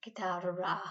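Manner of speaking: guitarra with a long rolled RR; rolled R demo. Shown as a demonstration. Teacher shows pupils the rolled R, stressed. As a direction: roll the RR in guitarra firmly. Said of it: "just say it like tocar la guitar".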